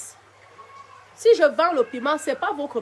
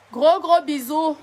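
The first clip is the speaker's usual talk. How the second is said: slow, stretched and louder, blowing kisses; drawn-out goodbye; 2 semitones higher, 4 dB louder, slower than usual. Real, not acted. Streamer signing off to her fans, slow and stretched. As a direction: linger on each gros as you send love.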